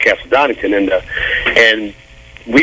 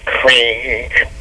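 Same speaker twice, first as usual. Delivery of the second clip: mock quack. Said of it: "Quacking is like".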